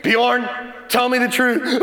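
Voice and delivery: a hint of a stern father; measured, serious parental questioning; lightly played dad pressing for the truth; serious daddy voice. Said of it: "get in that real serious daddy voice".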